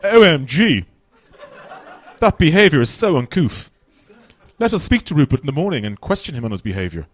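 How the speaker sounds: high, prim mock English mother; posh English mother. English mother wakes Hugo over Rupert, prim and high. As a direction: play the proper mother waking the father. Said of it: "The English mother would go in".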